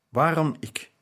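"Waarom ik?" moaned with a falling line, "waarom" leaned on; groaning.

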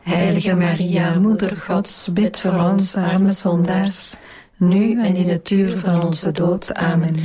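measured rosary response in unison; praying aloud as a congregation; prayer recitation. Real, not acted. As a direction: recite it together, evenly and devoutly. Group answers the Hail Mary.

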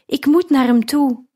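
weak patient crying out for father; urgent cry. A narrator's reading. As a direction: cry out, desperate to reach him. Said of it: "riep ik".

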